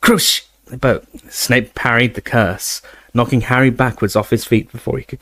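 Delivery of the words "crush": shouted spell. Acted. Spell cast in duel.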